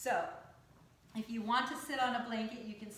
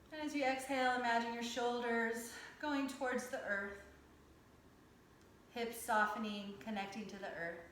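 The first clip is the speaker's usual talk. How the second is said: calm, measured yoga teacher's cueing; guided yoga meditation. Acted. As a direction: guide them through breath and stretch, unhurried, with pauses. Leads yoga breathing and stretches.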